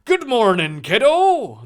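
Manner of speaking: loud, amiable fake Irish greeting; bad Irish accent. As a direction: put on a hammy Irish brogue. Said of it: "go with this bullshit Irish accent".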